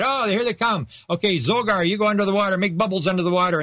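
a hint of an alien giving orders to Zogar; mock alien chatter. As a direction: lightly voice a scheming alien. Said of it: "they saw him coming and said".

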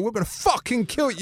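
high-pitched mock threat from an angry mob. Retelling the crowd's threats to the interviewer, mock angry. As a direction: imitate a hostile crowd member. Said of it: "people coming out going".

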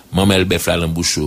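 talking with a mouthful; mouth full. Real, not acted. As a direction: speak around a bite of food. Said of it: "C'est impoli de parler avec la bouche pleine". (la bouche pleine)

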